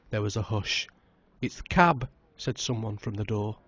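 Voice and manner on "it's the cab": announcing loudly. A narrator's reading. Someone announces the cab.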